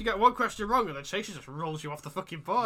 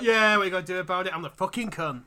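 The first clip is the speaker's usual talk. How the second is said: cocky chaser; 3 semitones higher, 8 dB louder than usual. Acted. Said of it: "I'm like".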